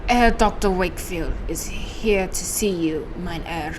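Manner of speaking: put-on slow, halting German accent; attempted German accent. Servant announcing a visitor to the doctor, shaky attempt at German accent. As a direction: try a rough German accent. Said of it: "I don't know how to do a German accent".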